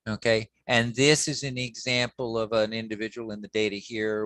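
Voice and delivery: usual speaking voice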